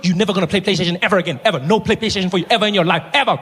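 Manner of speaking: fast, emphatic scolding; stern ban. Retold or imitated. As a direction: lay down the law fast. Punishing brother.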